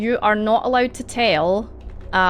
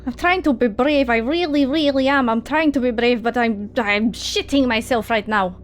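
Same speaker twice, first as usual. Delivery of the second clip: higher, stammering confession; frightened character; 3 semitones higher than usual. Acted. Zolog admitting fear to companions, nervous and high. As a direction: plead that you are trying, nervously.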